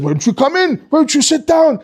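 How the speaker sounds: high, swooping invitation; jolly Santa pressing on with the welcome; Father Christmas. Acted. Father Christmas inviting the staring kid in, jolly.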